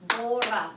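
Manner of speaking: "borra" as BOR-ra; weight on BOR in "borra", falling after; stress on first syllable. Shown as a demonstration. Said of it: "second to last syllable".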